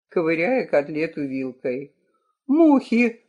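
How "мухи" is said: sharp cut-off retort; snapping. Acted. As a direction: snap it to shut him up. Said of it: "оборвала Леокадия".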